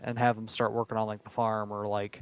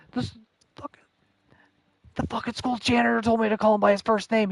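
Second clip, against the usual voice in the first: exasperated; 10 semitones higher than usual. Retold or imitated. Exasperated retelling of his reply.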